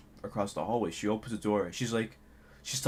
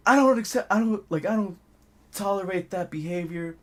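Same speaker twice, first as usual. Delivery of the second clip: retold upset teacher; 5 semitones higher than usual. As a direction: stammer in offended protest, imitating. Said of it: "she got so upset and pissed".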